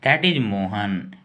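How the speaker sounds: That is Mohan said slowly, word by word; slow teacher dictation. Shown as a demonstration. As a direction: read the sentence slowly for learners. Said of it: "अब हम लोग next sentence पे".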